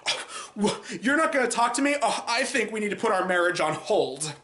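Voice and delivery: imitating an overblown angry wife, rising high on the question; hammed-up offended outburst that fades by the end; mock pissed off. Reviewer mimicking the wife's over-the-top angry reaction. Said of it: "she gets really pissed off".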